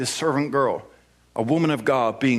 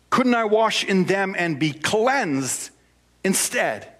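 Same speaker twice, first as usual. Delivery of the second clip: whiny voice; 3 semitones higher, slower than usual. Retold or imitated. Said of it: "I have to use a whiny voice".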